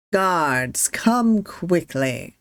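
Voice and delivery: slow, commanding rich man's call. Acted. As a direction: call the guards as the rich man. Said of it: "speaks loudly".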